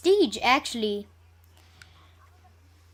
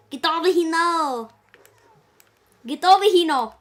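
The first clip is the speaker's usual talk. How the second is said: calling from far away; 3 semitones higher, 4 dB louder than usual. Real, not acted. Calling teammate in game.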